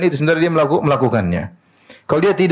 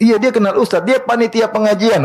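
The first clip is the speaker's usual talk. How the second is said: voicing the policeman; 8 semitones higher than usual. Policeman answers preacher in story.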